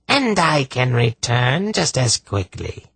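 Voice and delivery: high, harsh defiant sorceress; Zandramas. Acted. Sorceress answers Polgara's threat to banish her, harsh and defiant. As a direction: throw the threat back in a rasping voice. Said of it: "harsh, rasping voice".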